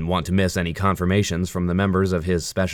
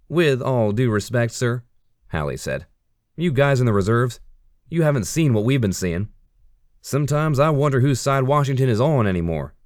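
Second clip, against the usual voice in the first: raised, heated protest; frustrated; 7 semitones higher, 3 dB louder than usual. Acted. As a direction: push back hard, louder and higher. Frustrated soldier argues with officer.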